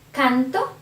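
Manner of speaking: canto with the first syllable "can" stressed; teacher's demo of canto, stressed before the O; stress before the ending. Shown as a demonstration. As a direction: put the weight on "can" in canto, not on the final o. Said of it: "the stress is before the ending".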